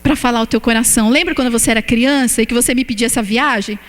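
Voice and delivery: voice of God. Retold or imitated. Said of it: "E Ele falou".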